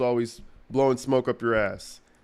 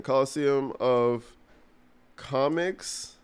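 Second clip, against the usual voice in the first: Coliseum of Comics said slowly, syllable by syllable; sounding it out; much slower than usual. Shown as a demonstration. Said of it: "I don't know if I spelled it right".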